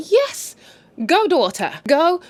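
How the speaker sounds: root for her like a fan; cheering. Retold or imitated. Cheering the daughter on.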